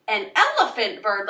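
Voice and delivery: amazed, questioning take on the line; a stunned "elephant bird?"; surprised. Shown as a demonstration. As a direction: react with real surprise. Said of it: "Like, you're surprised".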